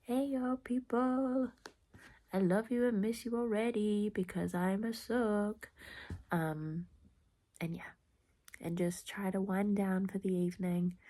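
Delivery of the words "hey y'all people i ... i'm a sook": playful text voice. Retold or imitated. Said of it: "be like".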